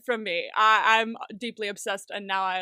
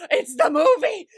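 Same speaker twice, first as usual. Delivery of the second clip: high, loud fan squeal with a laugh; excited outburst; 8 semitones higher, 9 dB louder, slower than usual. Retold or imitated. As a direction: blurt it out like a thrilled fan. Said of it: "I got so excited".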